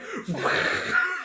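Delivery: whooshing fire noise; imitated flame burst. Game master sets off another tripwire, imitated whoosh. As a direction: mimic the trap igniting. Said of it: "he goes off again".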